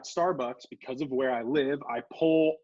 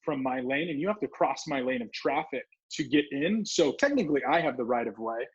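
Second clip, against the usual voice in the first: mildly sarcastic correction. Retold or imitated. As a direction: say it with a knowing, smug edge. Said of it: "I'm saying it kinda sarcastically now".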